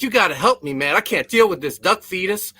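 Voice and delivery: lightly imitating a desperate tenant; frantic plea. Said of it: "real frantic and panically".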